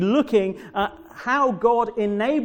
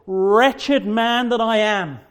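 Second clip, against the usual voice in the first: slow, heavy lament, a little louder; anguished cry; 4 dB louder, slower than usual. Retold or imitated. Preacher voicing Paul's cry to his congregation, slow and anguished. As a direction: groan it out as a confession. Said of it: "His first cry".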